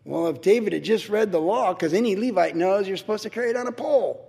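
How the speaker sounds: lightly voiced husband grumbling over dinner; a hint of a know-it-all at the table; gossiping spouse. Husband complaining about the king to his wife, mild gossipy voice. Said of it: "conversation at the dinner table".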